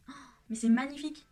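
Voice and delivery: a real thrilled gasp of admiration; excited delight. Real, not acted. Vlogger thrilled by her pigment swatch, excited outburst.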